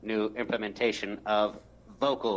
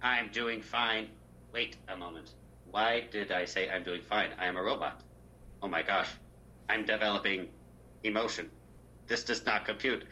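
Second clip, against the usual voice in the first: robot voice. Acted. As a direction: speak like a deadpan robot. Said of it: "if we held these voices the entire time".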